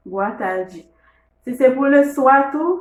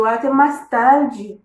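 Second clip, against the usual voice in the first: slow demo; 4 dB louder, much slower than usual. Shown as a demonstration. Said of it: "demo of farewell".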